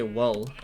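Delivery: "wool" with an open vowel, near "wull"; common variant. Shown as a demonstration. Player showing how many people say it, "wool" as "wull". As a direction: say "wool" without rounding the oo. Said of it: "a lot of people say".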